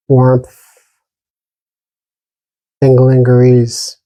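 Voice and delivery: calm, even meditation guidance with long silences between phrases; unhurried meditation teacher, pausing long after each instruction; guided meditation. Real, not acted. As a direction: gently guide listeners inward, leaving lots of space.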